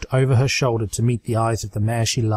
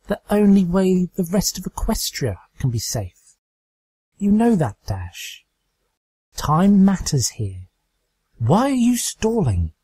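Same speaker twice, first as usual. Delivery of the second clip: higher, firm and insistent; Twilight's firm voice; 5 semitones higher than usual. Acted. Twilight insists to Dash that the carrier must die. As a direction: press the hard truth home.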